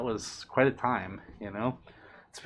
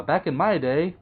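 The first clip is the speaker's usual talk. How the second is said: put-on grumpy old-timer; 4 semitones higher, 4 dB louder than usual. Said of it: "Joey's sounding like the Grey Muslim now".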